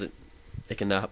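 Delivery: speech broken by hiccups; talking through hiccups; hiccuping. Real, not acted. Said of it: "I'm hiccuping".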